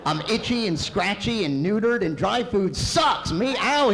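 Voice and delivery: high, loud, slow tragic wail; mock anguished cat. Cat moaning his woes to his owner, hammed-up anguish. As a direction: wail the cat's despair in mock tragedy. Comic voicing of cat's lament.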